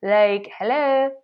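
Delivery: mock offense, caught off guard; shocked indignation. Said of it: "makes you feel like".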